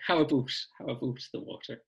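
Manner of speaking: mock Canadian accent, stretched "about". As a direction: tease a Canadian saying "how about". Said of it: "taking the mickey out of your Canadian accent's terrible".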